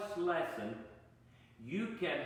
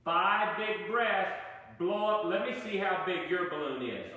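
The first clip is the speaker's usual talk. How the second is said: loud coaching call; 3 semitones higher, 4 dB louder than usual. Shown as a demonstration. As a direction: push the words out from the belly. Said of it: "push it out from down here".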